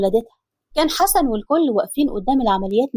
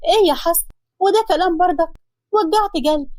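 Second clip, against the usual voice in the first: higher, startled wife catching her breath; mock startled scolding, higher; 5 semitones higher than usual. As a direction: react as if he just scared you. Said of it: "وخضها".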